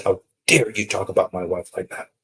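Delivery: mildly indignant retort, weight on "dare"; mock fury. Imagined furious husband confronting the intruder, mild mock fury. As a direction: play a touch of outrage without shouting. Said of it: "He was furious".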